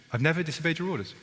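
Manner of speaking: mock proud son. Preacher mocks the proud older son, smug. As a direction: brag like the dutiful son.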